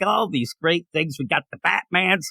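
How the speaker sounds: dry, sarcastic listing. Real, not acted. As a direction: say it with a sarcastic edge. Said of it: "This sounds sarcastic".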